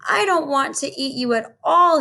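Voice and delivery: understated storybook sob; sobbing giant. Acted. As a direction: plead like a crying giant, lightly. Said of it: "he sobbed".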